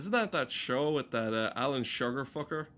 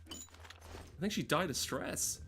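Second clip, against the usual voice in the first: whispered aside; 4 semitones higher, 6 dB quieter, slower than usual. Pretend. Mock whisper about dead character.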